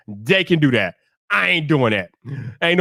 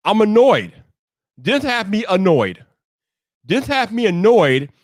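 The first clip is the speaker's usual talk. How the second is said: slow, emphatic annoyance; pointedly fed up; annoyed; slower than usual. Real, not acted. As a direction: lay out the irritation word by word. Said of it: "I gotta express some annoyance".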